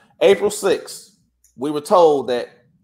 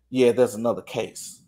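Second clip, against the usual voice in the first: retold whisper; 6 semitones lower, 5 dB quieter than usual. Courthouse clerk confiding in the teller, hushed and lower. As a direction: lower and softer, a hushed aside. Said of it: "was whispering".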